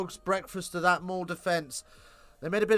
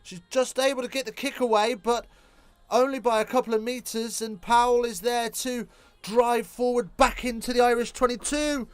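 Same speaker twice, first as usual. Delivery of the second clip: rising, higher live match call; play-by-play; 7 semitones higher than usual. Real, not acted. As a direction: call the phase as it unfolds.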